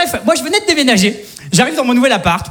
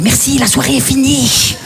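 mock sing-song neighbour; 2 semitones higher, slower than usual. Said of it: "je l'entends, il fait".

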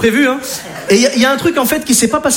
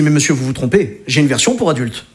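low, knowing offer; the operator luring the dad, low and sly; 7 semitones lower than usual. Retold or imitated. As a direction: murmur it like a sleazy pitch.

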